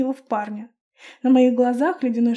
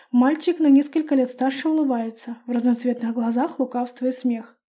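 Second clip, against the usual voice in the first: usual speaking voice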